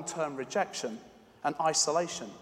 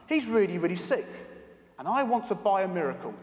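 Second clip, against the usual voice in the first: put-on little girl voice; 4 semitones higher, 3 dB louder than usual. Girl pleading with pharmacist.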